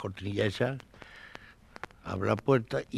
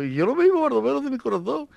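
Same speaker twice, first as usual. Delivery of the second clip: emphatic reply; 14 semitones higher, 5 dB louder than usual. Retold or imitated. Responde asustado al compañero.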